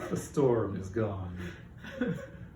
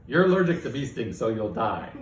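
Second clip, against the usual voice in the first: lightly voiced AI, enjoying itself; gleeful AI; 5 dB louder than usual. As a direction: relish every grim prediction. AI final verdict.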